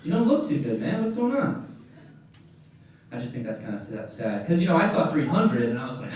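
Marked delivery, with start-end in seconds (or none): 0.0-1.6 high, startled outburst; hammed-up dismay at his looks; mock shock. Crew seeing the actor arrive, mock shock. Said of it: "They're like".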